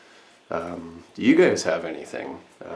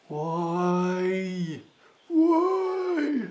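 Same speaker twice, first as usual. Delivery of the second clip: high, rising cry of frustration; exasperated whine; 12 semitones higher than usual. Real, not acted. Frustrated at a complication.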